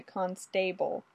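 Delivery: "constable" with the weight on STA; second-syllable stress. A narrator's reading. Olga mispronouncing Fraser's title, stress on STA in "constable". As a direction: say con-STA-ble, leaning on the middle syllable. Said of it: "put the emphasis on the second syllable".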